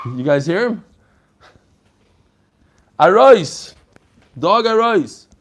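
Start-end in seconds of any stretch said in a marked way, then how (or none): 3.0-5.3 yiddish accent. Real, not acted. Shooing the dog out mid-lesson.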